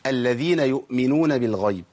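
الذين يؤمنون بالغيب recited with held lam; full doubled lam. Shown as a demonstration. Teacher models before naming the mistake, full doubled lam. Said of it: "ما نجريش بالإيه؟ بالتشديد".

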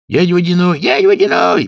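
high, loud call. Acted. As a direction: shout his name over water. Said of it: "подхватили Кузька с Лешиком". (зовут громко)

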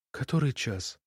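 barely audible plaintive question; plaintive whisper. Acted. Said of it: "тихим, жалобным голосом".

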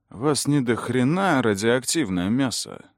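high, slow, hoarse bouncer's growl; a rough barbarian grunting through a hatch. Acted. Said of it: "Хрипло поинтересовалось окошко голосом варвара".

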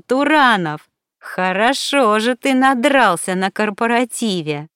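high, loud, exasperated shouting. Acted. Alina yells at drunk Turanov, exasperated. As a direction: hammer the truth into him.

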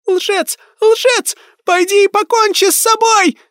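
put-on very high, loud raging child; snarling ghost. A narrator's reading. Ghost girl raging at the lying medium. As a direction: scream it with hatred. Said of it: "зарычала Молли".

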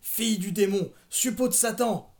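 loud, high accusing wail; anguished wail. A narrator's reading. Mother cursing her daughter, loud rising wail. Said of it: "gémit-elle".

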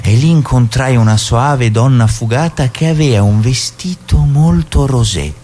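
slow, mock-solemn verse; poem recital. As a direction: declaim it with grandeur, building up. Reading a comic wine poem. (declamazione solenne e ironica)

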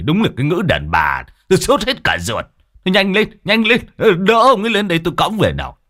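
gruff scolding. Acted. Man scolds the wife, urges hurry.

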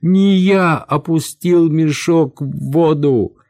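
high, slow whine of denial; squeaking servant. A narrator's reading. Servant pleading with his captor, squeaking in protest. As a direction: squeal your innocence, pitched well up. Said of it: "пропищал, заикаясь, прислужник".

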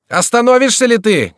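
very high, loud demand; exasperated, threatening yell; angry shout. A narrator's reading. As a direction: yell furiously at a runaway rider. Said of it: "кричал Шико".

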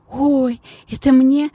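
high, loud joyful squeak; happy squeak. Acted. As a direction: squeal with delight at the gift. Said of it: "радостно пискнула Геля". (радостный писк, выше и громче)

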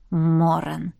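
low, pointed echo of the name; pointed repeat. A narrator's reading. Jaf echoing the name Miranda used, low and suspicious. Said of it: "повторил Джаф".

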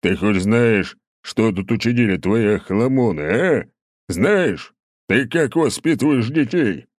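loud, stern dressing-down; stern scolding. A narrator's reading. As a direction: scold him like a naughty boy. Tolstoy scolding the count. (строгий громкий выговор)

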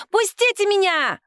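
shrill high yell, fighting free. A narrator's reading. Woman dragged by police, yelling to be let go. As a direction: scream it while struggling. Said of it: "орала она".

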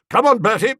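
high, loud eager urging; real enthusiasm. A narrator's reading. Aunt urging nephew on, high and loud with glee. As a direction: cheer him on with relish. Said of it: "speaking with real enthusiasm".

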